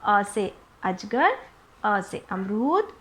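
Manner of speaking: slow, spaced revision chant of अ words; teacher leading a slow revision drill; slow drill recitation. Shown as a demonstration. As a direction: recite each word slowly like a classroom drill. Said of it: "फटाफट से revision करते हैं".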